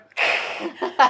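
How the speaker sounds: loud breathy fanged snarl; bare the fangs with a breathy laugh; vampire hiss laugh. Retold or imitated. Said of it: "turned around and went".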